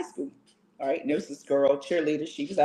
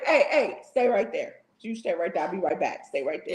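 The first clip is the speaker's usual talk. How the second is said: mock stern mom; 3 dB quieter than usual. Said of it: "I'ma say".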